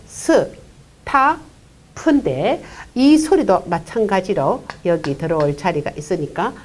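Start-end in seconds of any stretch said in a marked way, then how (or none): 0.1-1.4 스 and 타 as separate raised beats, clear gap between; sounded out separately. Shown as a demonstration. Teacher building a word for learners, 스 and 타 apart. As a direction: break it into 스, then 타. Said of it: "이렇게 되니까 어떻게 되죠?".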